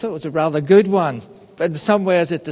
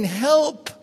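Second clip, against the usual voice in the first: high-pitched cry for help, drawn out at the end; half-hearted, high-pitched yell for help; mock yelling for help; 7 semitones higher, slower than usual. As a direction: act out a stranded man calling for rescue. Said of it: "he's yelling".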